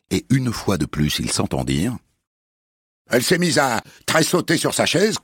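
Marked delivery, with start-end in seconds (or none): 3.1-5.2 headmistress voice. Acted. Headmistress repeats story.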